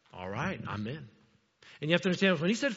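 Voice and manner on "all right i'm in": casual acceptance. Retold or imitated. Philip's casual acceptance, acted out.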